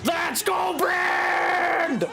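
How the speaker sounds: yelling from the sidelines. Real, not acted. Cheering fighter in betting game.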